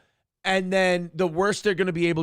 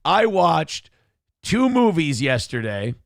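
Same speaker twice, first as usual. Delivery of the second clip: mock announcer read; 5 dB louder, slower than usual. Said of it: "me going like this".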